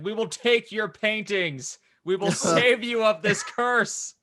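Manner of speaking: mock tabloid pitch.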